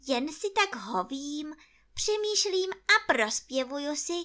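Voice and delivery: high, feigned-casual bear voice; as if nothing's wrong. A narrator's reading. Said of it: "jakoby nic".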